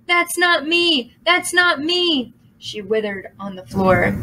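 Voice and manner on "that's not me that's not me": high, slow wailing denial; horrified demon. A narrator's reading. Demon denies her reflection, high slow wail. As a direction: wail it in disbelief.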